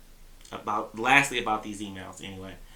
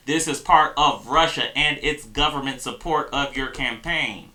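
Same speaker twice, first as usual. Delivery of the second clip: emphatic quote; 3 semitones higher, 6 dB louder than usual. Shown as a demonstration. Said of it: "for saying explicitly in your email".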